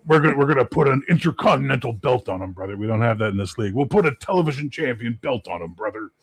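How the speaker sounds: a hint of a hyped ring announcer; playful mock promo; Hulk Hogan.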